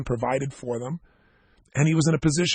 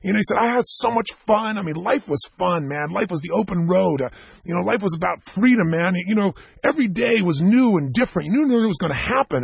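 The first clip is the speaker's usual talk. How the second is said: revived hell raiser; 3 semitones higher than usual. Retold or imitated. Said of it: "His language changes".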